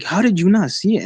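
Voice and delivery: a retold, half-annoyed disbelief; exasperated. Friend scolding him for missing the light, mildly indignant. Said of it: "he got mad at me".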